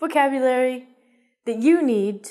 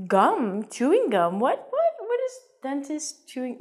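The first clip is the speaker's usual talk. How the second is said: confused, rising what what; puzzled learner; 4 semitones higher than usual. Retold or imitated. Student wondering about dentist chewing gum, confused. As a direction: imitate a baffled student. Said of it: "think this is strange and think".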